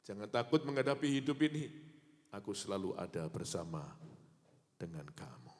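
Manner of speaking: God tells the congregation not to fear; God's voice. Acted. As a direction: speak as God comforting. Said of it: "dengarkan suaranya".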